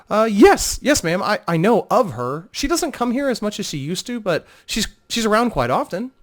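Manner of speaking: a nervous hostess fumbling for the answer; flustered innkeeper Telith. Acted. Telith answering Vo at the front desk, flustered and high.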